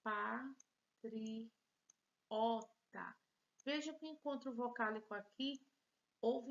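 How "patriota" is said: patriota slowly split pa, tri, o, ta; syllable by syllable. Shown as a demonstration. Teacher showing four syllables, patriota broken apart. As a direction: count out four parts of patriota with pauses. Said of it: "Quatro sílabas".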